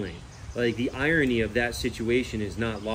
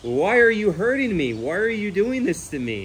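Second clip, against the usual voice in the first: higher, louder mock plea; pleading pig; 8 semitones higher, 4 dB louder than usual. Imagining the pig pleading during the hoof trim, higher mock plea. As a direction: beg like a hurt animal. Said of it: "imagine if it was".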